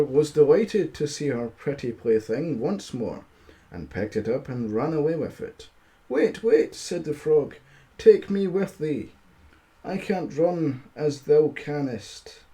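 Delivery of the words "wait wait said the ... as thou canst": frog voice. Acted. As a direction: squeak it out like a frog begging. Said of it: "I'll just talk normally".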